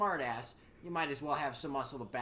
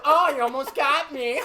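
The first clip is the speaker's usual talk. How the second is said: mock soldier; 11 semitones higher, 14 dB louder than usual.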